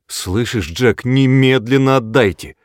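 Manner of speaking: loud, stern command with немедленно hammered; firm angry order. A narrator's reading. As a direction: demand it with no room to argue. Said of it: "приказала она так твёрдо и гневно".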